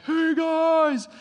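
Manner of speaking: put-on high, loud call to kids up on a cliff; yelling up from a canoe. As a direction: shout up to get their attention. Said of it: "yelled up".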